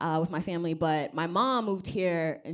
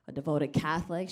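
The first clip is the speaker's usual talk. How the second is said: usual speaking voice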